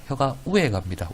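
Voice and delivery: light Gyeongsang dialect with "우에"; a touch of Gyeongsang dialect. Shown as a demonstration. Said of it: "경상도 사투리로".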